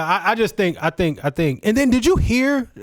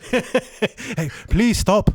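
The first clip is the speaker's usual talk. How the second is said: mock Canadian accent; much slower than usual. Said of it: "it's Canadian".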